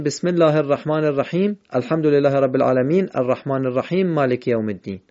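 quick run-on with "الرحیم" and "العالمین" cut to bare m and n; "الرحیم الحمد" run together as rahim al-hamd, no linking vowel; wrongly joined. Shown as a demonstration. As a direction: rattle through without pausing, dropping the vowels ending "الرحیم" and "العالمین". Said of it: "نباید بگیم".

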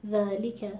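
ذالک with full li and no extra push; ذالک at an unforced, natural measure; natural word weight. Shown as a demonstration. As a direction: say ذالک evenly, neither snatched nor punched. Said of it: "خیلی طبیعی".

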